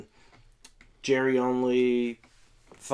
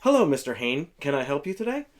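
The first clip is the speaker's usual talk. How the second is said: lightly acted courteous hello, lilting up at the end; polite greeter; 3 semitones higher than usual. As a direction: greet a customer named Mister Hain. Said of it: "it's Sam Hain, as in".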